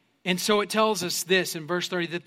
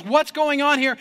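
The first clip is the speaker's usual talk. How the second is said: retold raised-voice demand; 5 semitones higher, 4 dB louder than usual. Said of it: "at a much higher volume".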